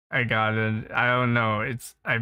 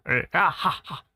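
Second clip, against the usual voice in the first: actual laugh demo; 7 semitones higher than usual. Shown as a demonstration. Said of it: "Like, actual laughs".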